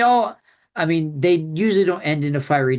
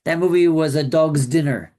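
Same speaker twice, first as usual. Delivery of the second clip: British accent attempt; 4 dB louder than usual. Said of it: "it's the closest I can get".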